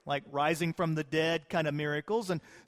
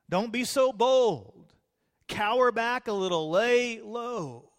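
mock worldly advice; 4 semitones higher than usual.

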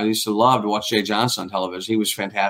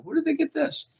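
high squeaky baffled question; 6 dB quieter than usual. Retold or imitated. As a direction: ask it in a tiny incredulous voice. Baffled quote of himself.

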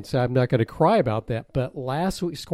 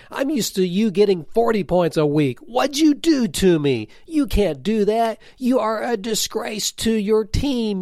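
higher, mock-outraged tirade at his players; mock coach rant; 8 semitones higher, 4 dB louder than usual. Exasperated team owner scolding his fantasy players, hammed-up rant.

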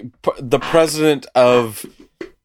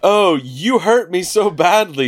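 fake injured victim; 7 semitones higher than usual. Con man faking injury.

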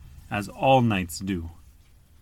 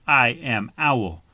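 brave declaration; 5 dB louder, slower than usual. Acted. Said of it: "he puffed out his feathers and said".

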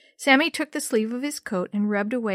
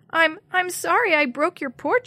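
higher, frightened little squeak on "sorry"; 8 semitones higher, 4 dB louder than usual. Acted. Jenny apologizing to the old lady, scared squeak. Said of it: "she squeaked out a reply".

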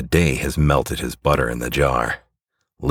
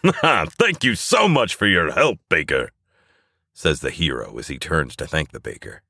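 cheerful hero; 4 semitones higher than usual. Acted. Hero thanks baker, leaves.

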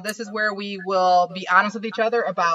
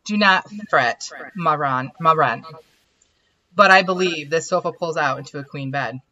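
put-on French accent; 3 semitones lower than usual. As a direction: speak as a charming Frenchman. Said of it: "the weird French accent".

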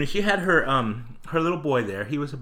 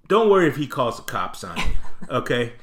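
snapped warning; 2 semitones higher, 6 dB louder than usual. Retold or imitated. Clerk scolding a bratty kid in front of his mother. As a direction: lay down the law with mock menace. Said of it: "something snapped in me".

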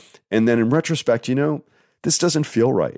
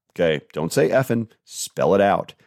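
ordinary talk, nothing marked

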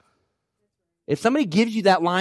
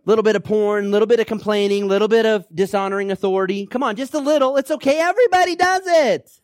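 coaxing, climbing higher and louder to a squeal; wheedling tempter; 4 semitones higher, 4 dB louder than usual. Acted. Tempter urging the listener that everybody does it, rising wheedle. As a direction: egg them on, sweeter and higher each line.

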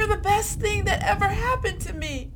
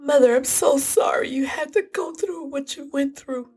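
sobbing apology to mother. Acted. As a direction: cry through the guilt. Guilt-stricken grief to mother.

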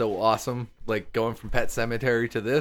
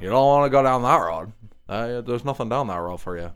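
Fred Gwynne Midwest accent impression; lightly voiced Midwest old man warning. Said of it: "terrible Midwest accent done by Herman Munster himself going".

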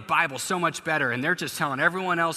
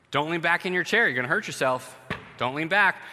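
repeated warning, louder and higher; nagging parent; 5 semitones higher, 4 dB louder than usual. Retold or imitated. Parent nagging child to stop rocking, louder and higher. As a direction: scold again, more exasperated.

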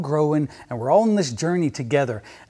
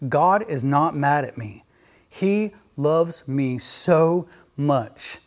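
say it with me; much slower than usual. Shown as a demonstration. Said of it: "Just say it with me right now".

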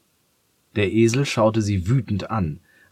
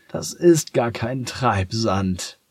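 hissed; 4 semitones higher, slower than usual. Acted. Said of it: "fauchte Macadamia".

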